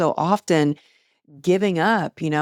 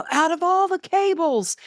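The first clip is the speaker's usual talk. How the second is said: mock-mad husband; 13 semitones higher than usual. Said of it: "He was so mad".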